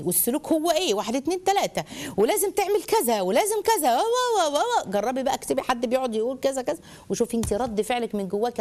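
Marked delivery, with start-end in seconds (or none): 0.0-4.9 preachy list climbing into a high drone; mock sermonizing, rising as it runs on; lecturing parent. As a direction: parody an endless moral lecture. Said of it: "اسلوب المحاضرات".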